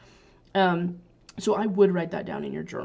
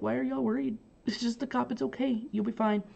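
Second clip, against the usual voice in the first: higher, lightly soothing voice; mock reassurance; 4 semitones higher, 4 dB quieter than usual. Teacher voicing reassurance to suspicious guests about the cop, lightly soothing. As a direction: brush off their worry in a soft, higher voice.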